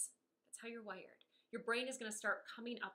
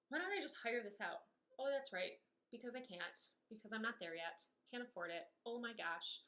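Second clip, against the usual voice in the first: a touch of frustrated venting; mock complaining. Shown as a demonstration. Coach acting out a stressed vent for viewers, mildly frustrated. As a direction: let it spill out like a pity party. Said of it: "you're complaining".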